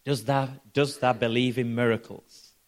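lightly put-on Yorkshire accent; a hint of broad Yorkshire speech. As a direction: quote him in mild Yorkshire dialect. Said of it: "in his Yorkshire accent and says".

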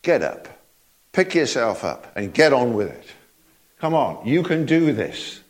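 lightly voiced Lord telling someone to get up; a low, unhurried nudge to keep going; the Lord urging. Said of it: "the Lord says".

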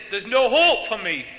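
slow, loud acted hopelessness; retold despair. Lifer answering the preacher's faith, acted despairing declaration. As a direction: declare it slowly and forcefully, imitating him.

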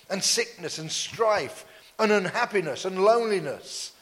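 measured preaching declaration; prophetic declaration. Real, not acted. Preacher breaks curses over the congregation, solemn prophetic declaration. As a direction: declare it over the congregation, weighting each phrase.

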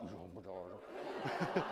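slow, low, breathy-amazed oh my God; awed oh my God. Retold or imitated. Guest stunned by the wedding hall, slow awed gasp. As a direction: let the awe drag the words out.

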